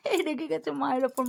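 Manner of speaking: ordinary talk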